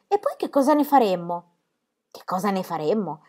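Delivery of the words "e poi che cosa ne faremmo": Tommy asking. A narrator's reading. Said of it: "disse Tommy".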